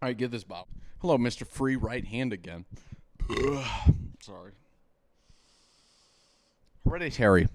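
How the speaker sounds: tipsy, drinking while talking. Real, not acted. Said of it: "We're concerned for our buddy Chris".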